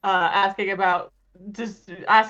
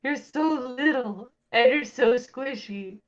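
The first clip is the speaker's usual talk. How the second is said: fond cooing over a tiny animal; gushing baby-animal adoration; 3 semitones higher than usual. Acted.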